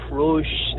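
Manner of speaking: "Prush" with the sound stretched long; imitating a Russian classmate's long-drawn "Prush"; drawn-out Russian pronunciation. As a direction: drag out "Prush" as a Russian speaker might. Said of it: "they used to pronounce it".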